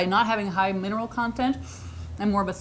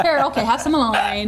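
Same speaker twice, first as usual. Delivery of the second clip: loud, laughing hand-over; loud laughing offer; 7 dB louder than usual. Real, not acted. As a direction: call it out while laughing. Offering food while laughing.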